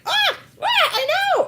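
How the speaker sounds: very high squealing shock; mock shocked squeal; double shock squeal. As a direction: shriek it like a movie moment. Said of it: "a double shock moment".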